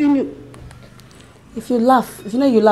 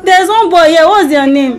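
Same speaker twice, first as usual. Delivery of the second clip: puzzled stranger in someone's house; amnesiac confusion; 3 semitones higher than usual. Pretend. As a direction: sound lost and unsure. Wife fakes amnesia prank call.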